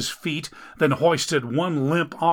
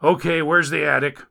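lightly voiced rescuer; 3 semitones higher, 4 dB louder than usual. Rescuer reaches the apartment, asking a bit louder. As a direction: ask brusquely for the attic.

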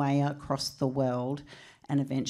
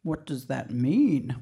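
scared husband; 4 semitones lower, slower than usual. Retold or imitated. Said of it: "a little bit scared".

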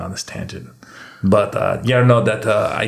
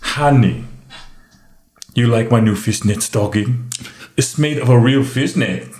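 mock Tongan accent. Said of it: "taking the Tongan accent and applying it".

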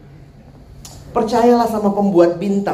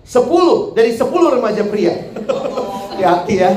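emphatic claim breaking into laughter; said while laughing. Real, not acted. Preacher joking to teens about an exaggerated statistic, said while laughing. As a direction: laugh through the warning. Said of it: "ngomong begini sambil ketawa".

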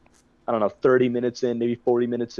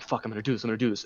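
softer, muttered psych-up; quiet self-pep; 3 semitones lower, 8 dB quieter, much faster than usual. Retold or imitated. Drinker psyching himself up before chugging, softly. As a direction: talk yourself into it under your breath.

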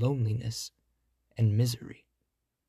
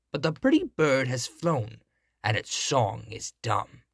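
mocking witch. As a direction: taunt the prince like a witch. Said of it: "cried mockingly".

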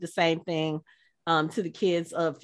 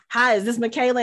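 lightly voiced impression of the TV character; a hint of the actor's character voice; Bobby Singer; 2 semitones higher than usual. Actor surprising a fan's daughter by phone, lightly imitated character voice. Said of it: "in his Bobby Singer voice".

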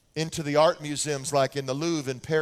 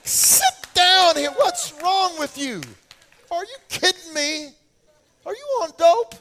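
high, loud, slow mock rant of a dad; exasperated dad yelling; 12 semitones higher, 7 dB louder than usual. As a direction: blast the kid up off the floor in disbelief. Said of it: "I'd say".

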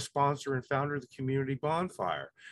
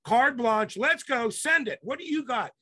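higher, louder hype calls; hype host; 7 semitones higher, 4 dB louder than usual. Pretend. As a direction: pump it up like a live show host. His hype host persona.

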